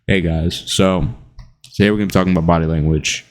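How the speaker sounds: mock dull YouTuber intro, rushed at the end; boring YouTuber. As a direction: imitate a bland self-help YouTuber. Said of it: "really boring".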